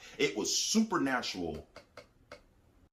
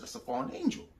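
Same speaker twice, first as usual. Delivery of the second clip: realizing aloud. Retold or imitated. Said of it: "and I said".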